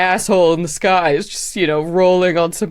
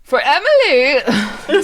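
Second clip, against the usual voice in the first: battle cry; 8 semitones higher, much slower than usual. Pretend. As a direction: call it out like a charge.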